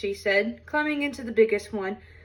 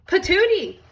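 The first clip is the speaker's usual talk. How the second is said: higher, louder spit-out yelp; spluttering cry; 8 semitones higher, 6 dB louder than usual. Acted. Goldilocks at the hot porridge, spitting it out with a loud yelp. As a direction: spit the word out in disgust. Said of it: "cried Goldilocks".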